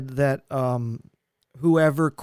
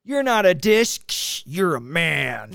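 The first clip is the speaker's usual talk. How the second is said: Sasquatch ad voice; slower than usual. Retold or imitated. Friend repeating the Sasquatch soap ad, slow punchline. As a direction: drag out the punchline like the ad. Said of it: "funny Sasquatch commercial".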